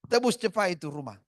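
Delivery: loud, curt demand; angry order. Retold or imitated. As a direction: order him to redeem the house. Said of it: "Marah dia".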